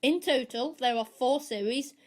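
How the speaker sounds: measured, prepared podcast review; scripted review read. Acted. Podcast host recommends Sherlock to listeners, reading a scripted review.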